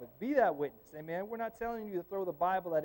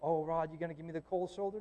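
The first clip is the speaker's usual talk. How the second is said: student voice. Retold or imitated. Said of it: "You know".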